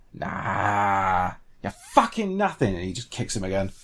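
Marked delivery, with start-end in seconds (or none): 0.1-2.7 scornful taunt. Acted. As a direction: sneer at a beaten enemy. Taunts dead orc while kicking it.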